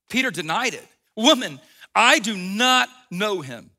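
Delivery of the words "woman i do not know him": denial. Retold or imitated. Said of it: "Peter said".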